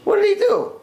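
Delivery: high, shocked woman's voice; high-pitched astonished noblewoman; Roman woman. Retold or imitated. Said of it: "And the Roman woman says".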